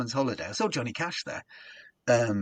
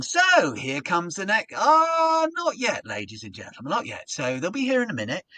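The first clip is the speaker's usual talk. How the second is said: higher, louder hyped-up compere tease; energy rising; 5 semitones higher, 4 dB louder than usual. Retold or imitated. Compere teasing the crowd while stalling, hyped. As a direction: build the crowd up, then pull back. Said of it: "so my energy is going".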